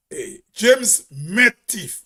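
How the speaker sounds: "met thief" said slowly as "met teef"; slow, spaced words, MET picked out in "met thief"; La Poterie dialect. Acted. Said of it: "a La Poterie person go to Saint George".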